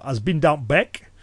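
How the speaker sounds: slow Cumbrian quiz phrase; slow Cumbrian dialect. Shown as a demonstration. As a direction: lay out the Cumbrian dialect slowly. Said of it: "if someone in Cumbria was to say".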